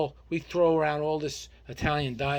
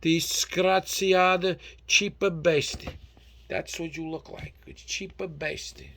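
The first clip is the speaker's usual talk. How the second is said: loud, worked-up scolding; indignant rant; 2 semitones higher, 5 dB louder, slower than usual. Real, not acted. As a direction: give them a proper outraged tirade. Ranting about guests coming empty-handed.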